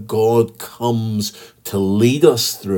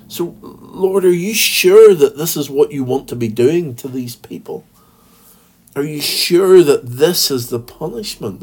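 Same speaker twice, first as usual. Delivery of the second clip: raised, pleading voice crying out to the Lord; mildly voiced lament, pitched up, asking if this must be; pleading cry to God; 4 semitones higher than usual. Preacher voicing Jeremiah crying out to God, raised pleading lament. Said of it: "Jeremiah is crying out and he's saying".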